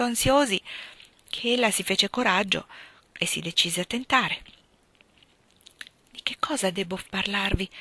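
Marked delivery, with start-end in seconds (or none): 6.1-7.7 timid hushed whisper. Acted. Shy Beth to Frank, nervous whispered question. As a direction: barely breathe the question.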